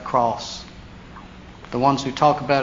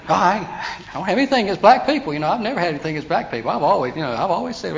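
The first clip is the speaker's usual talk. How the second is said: mock relative; 4 semitones higher, 4 dB louder, faster than usual. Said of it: "that relative started talking".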